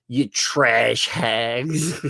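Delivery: slow, drawn-out sneering voice; mock sneer. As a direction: sneer it out slowly like a snob. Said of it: "then they were like".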